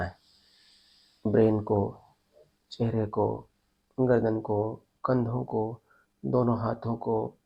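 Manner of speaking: measured body-scan instructions, pausing between phrases; guided meditation. Real, not acted. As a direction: lead them step by step through breath and tension. Guides breath and tensing exercise.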